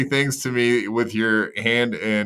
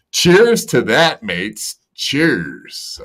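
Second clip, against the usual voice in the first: put-on Australian accent; much slower than usual. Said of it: "What are you, a fucking Aussie now?".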